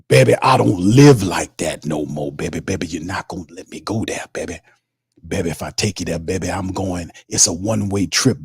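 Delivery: lightly voiced preacher, calling everyone baby; a hint of a smooth-talking reverend; Reverend Saint voice. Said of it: "The rev says".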